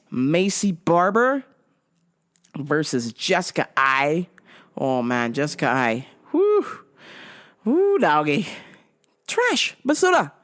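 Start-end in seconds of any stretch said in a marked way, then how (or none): 6.3-10.3 high, jeering woo and trash; mocking jeers. Mocking Jessica Eye, high jeers. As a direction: heckle her.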